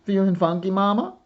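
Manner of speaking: called out high and loud across the porch; bright call. A narrator's reading. Aunt calling to her niece on the porch, high loud greeting.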